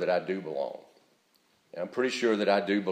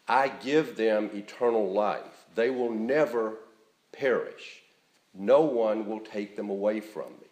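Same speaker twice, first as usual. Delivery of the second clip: gentle reassurance. Real, not acted. Preacher repeating Jesus' promise to believers, reassuringly. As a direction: spell out the promise gently, unhurried.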